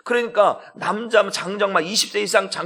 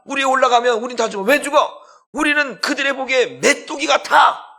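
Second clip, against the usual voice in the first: higher, louder frightened shouting about giants; panicked shouting spies; 6 semitones higher, 4 dB louder than usual. Acted. Preacher voicing terrified spies to the crowd, panicked shout.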